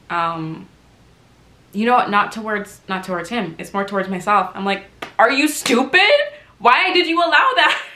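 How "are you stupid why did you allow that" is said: high, loud incredulous scolding; mock outrage in pointed questions; retold self-anger. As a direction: scold yourself, hammed up. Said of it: "And I have anger".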